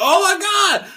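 high-pitched fan squeal of words; mock fan excitement. Shin Megami fans hearing the news, high excited cry. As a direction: cry it out high and loud, imitating thrilled fans. Acting out fans' reaction to news.

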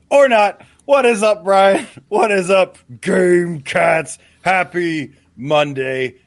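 high, loud, excited hello; pumped-up show greeting; hyped greeting. Acted. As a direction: burst in with big energy. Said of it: "deep fireside podcasty voice".

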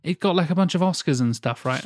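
clueless friend. Retold or imitated. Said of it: "an example I've given to loads of people of like".

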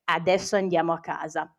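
low, soft, icy order; glacial, restrained retold order. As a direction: imitate a stern, cold command, quietly. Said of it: "mi ha detto glaciale".

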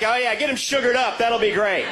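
high, mock-enthusiastic sarcasm; sarcastic. Comic watching kids get candy, sarcastic fake cheer. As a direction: fake cheer at the bad idea. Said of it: "I'm like".

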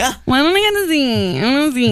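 put-on whining like a kid; high, whiny plea. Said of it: "You can whine".

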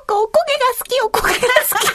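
very high-pitched imitation of a small boy; cute little son. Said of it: "う息子が可愛い声で".

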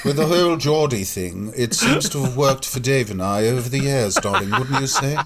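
a touch of luvvie, lightly put on; RADA voice. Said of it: "give me your Rada voice".

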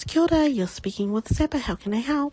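a polite call-centre greeting; phone greeting. Acted. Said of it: "When I do take calls, it's".

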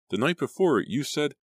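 high, broken-off words; stammering. A narrator's reading. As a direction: stammer and get cut off. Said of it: "I stammered".

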